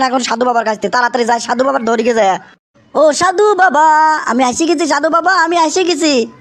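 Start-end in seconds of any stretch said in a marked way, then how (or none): 2.9-6.3 calling out slowly, stretching the vowels; long plaintive call to a hermit; drawn-out calling. Acted. Young man calls the holy man at his hut, drawn-out plea.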